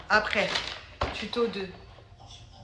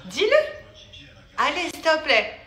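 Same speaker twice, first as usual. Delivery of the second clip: pestering plea, pitched higher; insistent pleading; 4 semitones higher than usual. Real, not acted. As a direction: beg and nag to get her to say it. Begs mother to say the words. (supplication insistante, plus aiguë)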